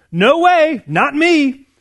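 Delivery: sputtering refusal shouted over the waves; mock shout. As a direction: play the drowning man, half-joking. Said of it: "only to hear him shout back, sputtering".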